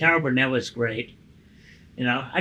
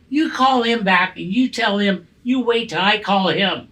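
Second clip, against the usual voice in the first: mock telling off, louder and higher; retold angry order; 4 semitones higher, 4 dB louder than usual. Retelling his angry reply to David, a mock telling off. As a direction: snap back like an annoyed driver. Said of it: "I go".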